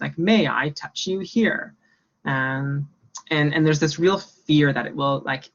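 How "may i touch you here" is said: slow, stiff robotic question. Pretend. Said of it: "in a robotic voice".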